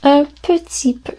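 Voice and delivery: un petit peu said casually, petit squeezed to ptit; clipped colloquial petit; everyday French. Shown as a demonstration. Teacher models the everyday sound. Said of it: "People tend to not pronounce it petit".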